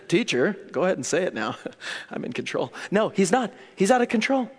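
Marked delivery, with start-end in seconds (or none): 0.1-2.7 quick, faked composure with a laugh, ending softer; regaining composure. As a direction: pretend to be in control after being rattled. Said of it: "Try to get back his composure a little bit".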